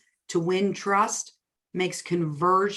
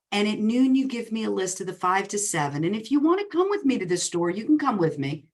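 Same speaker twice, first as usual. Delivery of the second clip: sweet coaxing; 3 semitones higher than usual. Retold or imitated. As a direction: coax him sweetly toward the plan. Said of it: "ever so sweetly".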